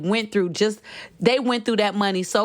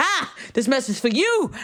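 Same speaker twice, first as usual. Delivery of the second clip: preachy preacher voice, raised pitch; 5 semitones higher than usual. Speaker addressing listeners, saying they sound like a pastor, mimicking a pastor. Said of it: "I sound like a pastor right now".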